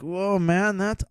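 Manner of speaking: put-on drunk awe. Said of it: "All drunk, I was like".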